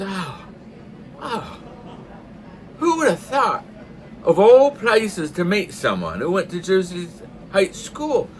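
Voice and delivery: high, slow, wondering Newfoundland voice; amazed Newfoundlander. Acted. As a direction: marvel at the coincidence, Newfoundland style. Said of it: "a newfie joke".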